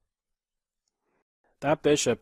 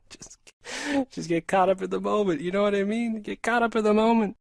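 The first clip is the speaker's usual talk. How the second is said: higher, pushed, urgent chess-mode voice; intense focus voice; 8 semitones higher than usual. Shown as a demonstration. Streamer to chat demonstrating his in-game voice, intense and pushed. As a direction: show the tunnel vision of a timed game. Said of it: "when I'm not talking like that".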